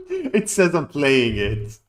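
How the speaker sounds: slow, loud incredulous reading; disbelief. Real, not acted. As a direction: say it slowly, stunned. Disbelief game says running.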